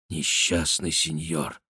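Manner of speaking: тихо и медленно, ниже; сочувственно прошепчи; шёпотом. A narrator's reading. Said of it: "прошептал Бюсси". (сочувственный шёпот)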